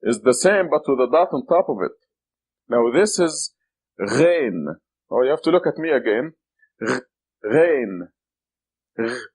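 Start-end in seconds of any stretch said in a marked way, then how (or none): 4.0-4.8 Ghain with a gargled French R. Shown as a demonstration. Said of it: "like the French R". 6.8-9.2 Gh and Ghain gargled like the French R; throaty uvular gh in Ghain. Shown as a demonstration. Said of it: "like the French R".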